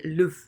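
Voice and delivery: "le v" as one syllable, "luv"; mute E. Shown as a demonstration. Teacher showing a mute E, "le v" as "luv". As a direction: say "le v" with a dull uh vowel. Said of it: "even with a mute E".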